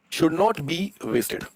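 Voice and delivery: very slow, word by word; slow dictation. Shown as a demonstration. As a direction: draw each word out for note-takers. Repeats slowly for those writing. (धीरे-धीरे, शब्द-दर-शब्द लिखवाते हुए)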